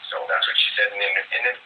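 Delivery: talking through hiccups. Real, not acted. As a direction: hiccups breaking the words. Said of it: "I got the hiccups here".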